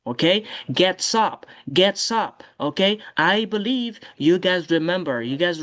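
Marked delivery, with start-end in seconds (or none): 0.7-2.4 "Gets up" run together, the s joined onto up; linked pronunciation. Shown as a demonstration. Teacher showing students the liaison, linked pronunciation. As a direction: link "Gets up" as one word, get-sup. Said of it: "You do the liaison".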